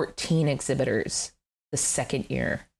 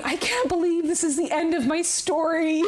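mock crying; 11 semitones higher than usual. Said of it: "sitting on his couch crying".

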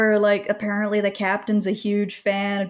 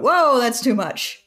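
mock-shocked protest, slow and higher; drawn-out imitation of a taken-aback actor; Dick Van Dyke; 5 semitones higher, 4 dB louder, slower than usual. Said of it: "Dick Van Dyke heard this and went".

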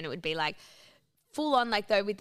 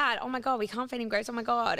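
panicked plea; 5 semitones higher than usual. Retold or imitated. Panicking at dad over grapes.

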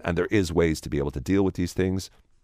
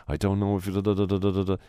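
negative inner voice; 5 semitones higher than usual. Retold or imitated. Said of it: "So if you're saying".

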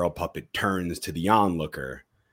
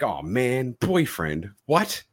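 surprised; 6 semitones higher, slower than usual. Retold or imitated. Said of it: "He's like".

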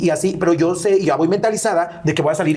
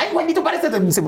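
much higher, slow, teasing mock voice; mocking others; 11 semitones higher than usual. Wendy imitating friends who tease her, high slow mock. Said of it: "siempre me dicen".

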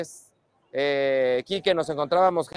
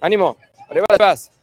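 loud cheer; 8 dB louder than usual. Real, not acted. Host cheering with a fan.

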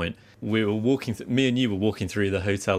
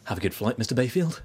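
a hint of a polite British steward accent; British airline steward. Airline steward greeting him on the plane, light British accent imitation. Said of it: "Like, the most British guy".

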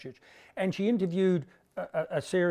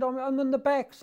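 put-on squeaky kid; 9 semitones higher than usual. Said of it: "He said".

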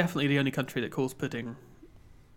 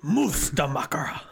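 whisper; 3 dB louder, slower than usual. Pretend. Whispered echo of the word.

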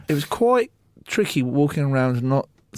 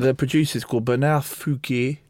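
put-on French accent. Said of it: "Ben's gonna say it in his French accent".

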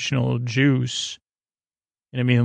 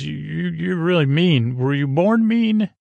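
higher, mock-wide-eyed wildling teasing; teasing Tormund voice; 4 semitones higher than usual. Tormund teasing the Hound about being mean, in a higher put-on voice. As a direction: needle him like a curious big wildling.

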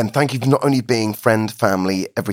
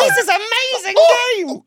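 laughing. Real, not acted. Laughing while pain machine runs.

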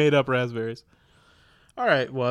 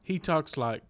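ordinary delivery

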